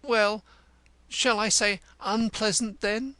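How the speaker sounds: high, stately theatrical declamation; wounded, pompous Cantercot. Acted. Cantercot taking offended leave of the cobbler, high and stately.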